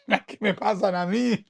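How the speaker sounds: laughing through the words. Real, not acted. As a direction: chuckle it out at his own troubles. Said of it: "¿y cómo se ríe?".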